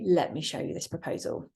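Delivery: firm, falling and settled; confident statement. Shown as a demonstration. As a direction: state it with authority. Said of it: "You could say".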